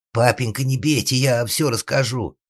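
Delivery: high, loudish nasal pleading; nasal whine. Acted. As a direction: beg Father through the nose. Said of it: "загнусавил он".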